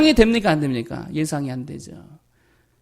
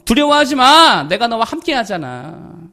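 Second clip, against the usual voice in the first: God's reassuring voice; 3 dB louder than usual. Acted. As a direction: comfort a frightened child with promises. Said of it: "하나님의 음성 들어야지요".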